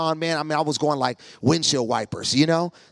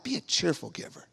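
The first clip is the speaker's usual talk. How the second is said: quoted saying; 9 dB quieter than usual. Retold or imitated. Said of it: "I heard it all my life".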